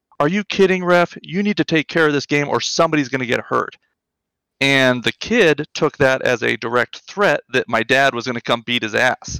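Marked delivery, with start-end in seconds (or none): 0.2-3.8 put-on loud yell with raised voice. Retelling Dad yelling at the ref: imitating a yell at the ref. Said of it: "my dad jumped up and yelled".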